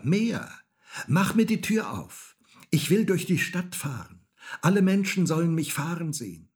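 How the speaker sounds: put-on high, loud, demanding child; shouting. A narrator's reading. Häwelmann orders the moon to open up, shouting. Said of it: "schrie Häwelmann".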